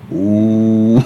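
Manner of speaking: drawn-out "uh" from the queue; imitated jeer. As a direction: mimic a heckler's long hoot. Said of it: "la persona que estaba atrás mío me hizo". (abucheo imitado, un "uh" largo)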